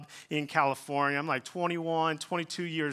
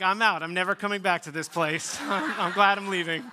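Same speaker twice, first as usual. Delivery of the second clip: mock indignant outburst; 4 semitones higher, 5 dB louder than usual. Mock storming off after embarrassment.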